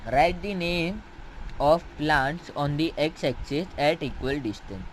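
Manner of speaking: slow, measured reading aloud; teacher reading the textbook slowly to a student. Acted. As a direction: read the book word by word for a class. Reads textbook step slowly.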